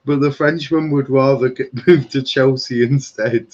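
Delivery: laughing through the report; can't keep a straight face. Real, not acted. Host telling viewers about Chelsea preference, fighting back laughter. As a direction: chuckle mid-sentence at the rumour. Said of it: "I can't say this with a straight face".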